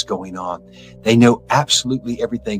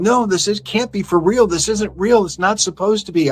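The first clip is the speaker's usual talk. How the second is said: high, panicked denial, much higher in pitch; disbelieving denial; 9 semitones higher than usual. Retold or imitated. Newcomers in hell denying it is real, high and panicked. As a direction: refuse to believe where you are. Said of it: "people are coming going".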